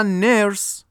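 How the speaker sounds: "نرس" as English "nurse", ending in hissed s; one syllable. Shown as a demonstration. Teacher contrasts singular with plural, "نرس" in one syllable. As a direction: say "نرس" in a single beat, no vowel after the s. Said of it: "یه کلمهٔ تک سیلابلیه".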